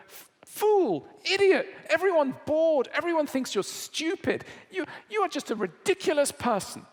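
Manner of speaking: high, loud furious tirade; furious spouse. Retold or imitated. Furious spouse after dinner party.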